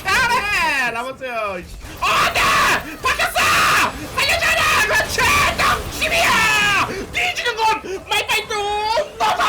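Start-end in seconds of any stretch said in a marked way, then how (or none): 2.0-9.4 high, loud panicked yells; frantic shouting. Real, not acted. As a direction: scream through the fight. Frantic teamfight.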